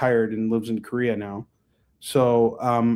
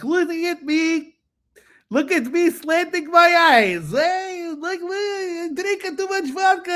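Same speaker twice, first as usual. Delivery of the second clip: mocking a racist caricature. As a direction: ham up a crude stereotype impression, much higher. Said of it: "doing his best impression of a Chinese soldier".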